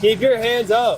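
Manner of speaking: loud, slow barked commands; commanding shout. Real, not acted. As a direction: order him firmly, word by word. Officer commanding suspect.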